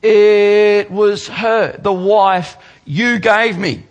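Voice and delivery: high, loud, slow whiny protest; Adam blaming. Retold or imitated. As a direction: push the blame off in a hammed-up whine. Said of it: "Adam says".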